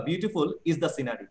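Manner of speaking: Beautiful fronted, read slowly; slow, weight on Beautiful; slow emphatic. Shown as a demonstration. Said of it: "জোর দিয়ে বলতে পারো যে". (ধীরে Beautiful-এ জোর)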